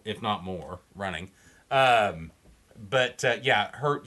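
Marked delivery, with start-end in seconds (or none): 0.0-1.3 fading away to almost nothing; trailing off. Real, not acted. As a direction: let the words die out. Voice fades at end of point.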